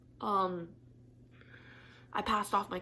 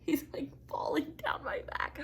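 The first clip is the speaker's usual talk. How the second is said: half-whispered aside; 7 semitones higher than usual. Real, not acted. Cat sliding down her back.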